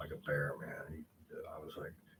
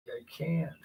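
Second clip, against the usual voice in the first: helpless cry; 11 semitones higher, 6 dB louder than usual. Retold or imitated. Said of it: "I'm like".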